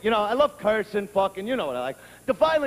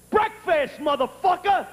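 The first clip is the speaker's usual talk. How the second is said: lightly voiced bossy child, pitched up; demanding little kid; 5 semitones higher than usual. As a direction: pipe up like an impatient kid making demands. Kid demanding breakfast over sleeper.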